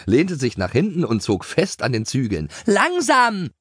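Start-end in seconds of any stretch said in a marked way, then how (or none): 2.7-3.5 high-pitched cry to slow down; alarmed shout. A narrator's reading. Lotte pulls at the reins, alarmed shout. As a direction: call out to rein in a pony. Rider shouts at bolting pony.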